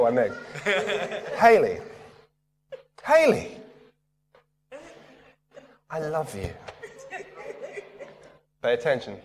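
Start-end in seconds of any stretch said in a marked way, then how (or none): 3.1-3.6 a loving high Haley; tender high call of her name. Shown as a demonstration. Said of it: "Give you an example". 5.9-6.5 I love you said softly and tenderly; soft loving demo. Shown as a demonstration. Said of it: "the intonation does something different".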